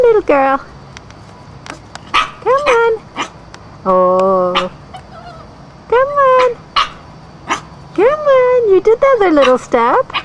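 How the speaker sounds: high, sing-song cheering; root for the puppy step by step; encouraging. Real, not acted. Owner cheering puppy down the steps.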